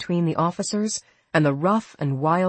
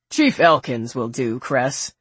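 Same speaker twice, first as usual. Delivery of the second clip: cheerful; 3 semitones lower, 3 dB louder, slower than usual. A narrator's reading. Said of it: "said cheerfully".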